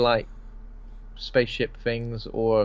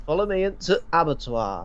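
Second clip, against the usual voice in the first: mock seductress; 6 semitones higher than usual. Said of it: "Scarlett Johansson is going".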